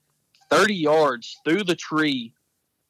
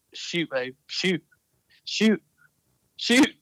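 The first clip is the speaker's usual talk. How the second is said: pleading, rising faster and higher every call; urgent urging; 4 semitones higher, slower than usual. Retold or imitated. Husband urging wife to fire at ducks, rising pleas.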